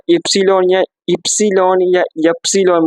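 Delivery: "इप्सिलॉन" as ipsilon with rounded lips; rounded German Y. Shown as a demonstration. Teacher shows German Y to students, rounded ipsilon. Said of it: "मतलब round करके".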